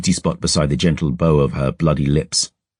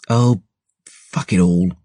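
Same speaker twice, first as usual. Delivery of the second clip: snarled; 2 semitones higher, slower than usual. Acted. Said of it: "she snarled".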